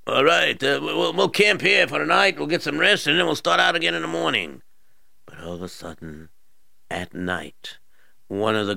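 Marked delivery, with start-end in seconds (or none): 0.0-4.6 soldier voice. Acted.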